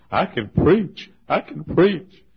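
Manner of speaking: swelling jubilant proclamation; excited cry. Retold or imitated. Pastor exulting in the park that he can still preach, building cry.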